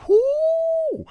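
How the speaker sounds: sudden high, very loud whoop; real thrilled whoop; excited whoop. Real, not acted. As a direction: let out a wild whoop of excitement. Excited outburst over weekly chart.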